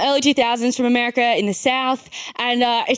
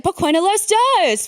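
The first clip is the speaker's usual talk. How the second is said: put-on little girl; 7 semitones higher, slower than usual. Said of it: "she's like".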